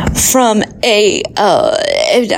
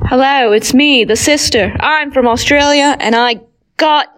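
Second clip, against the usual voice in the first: put-on Australian accent. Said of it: "attempting an Australian accent".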